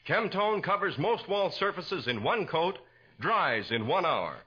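bright, persuasive announcer pitch; old-time radio commercial voice; radio ad read. Acted. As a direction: sell it to the housewife like a 1940s radio announcer. Announcer reads sponsor ad.

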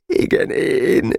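lassú, magasabb, elcsukló beismerés; sírós hang. Acted. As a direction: alig tudja kimondani sírás nélkül. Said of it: "pityergőre álló hang". (pityergve, lassan)

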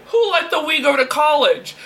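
hammed-up indignant rant; mock scolding. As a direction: tell it off in pretend disgust.

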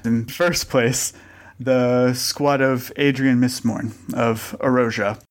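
slow, grudging ceremonial announcement; unenthused announcement. Acted. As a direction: announce the winner with little enthusiasm. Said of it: "she is even less enthused".

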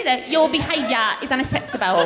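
lightly imitated British TV nanny accent; a hint of a scolding nanny's British accent; mock British nanny, lightly voiced; Super Nanny. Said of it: "The only accent I could do is the super nanny".

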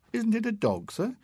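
a frightened schoolboy answering; boy's voice. A narrator's reading.

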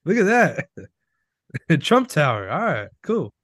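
high, goofy tourist impression; dumb tourist voice. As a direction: act like an amazed tourist. Imitating friend as tourist.

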